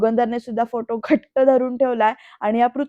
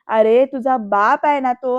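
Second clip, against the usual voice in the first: louder, slow mock scolding; scolding shout; 6 dB louder, slower than usual. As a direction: cry out a drawn-out reproach, lightly acted. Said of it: "असं ओरडून विचारतात".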